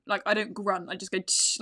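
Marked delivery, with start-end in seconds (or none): 1.2-1.6 demonstrated hissing "tsh" breath; sharp exhale. Shown as a demonstration. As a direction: breathe out through the mouth as a short tsh. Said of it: "I breathe out my mouth like that".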